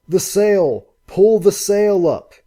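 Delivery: shouting. Acted. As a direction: yell it to her over the waves, slow and urgent. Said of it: "he shouted".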